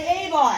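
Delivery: put-on "Hey, boy" said loud and punchy in the Newfoundland way; loud, clear Newfoundland "Hey, boy"; Newfoundland phrase. Shown as a demonstration. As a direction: model "Hey, boy" for the crowd. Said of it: "everybody here say".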